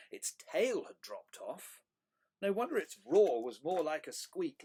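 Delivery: lively, emphatic storytelling voice; animated picture-book reading; story read to children. A narrator's reading. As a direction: present each oddity with wonder.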